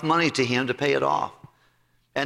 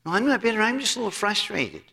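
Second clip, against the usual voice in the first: mock denial; 5 semitones higher than usual. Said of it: "don't wanna admit they're bitter".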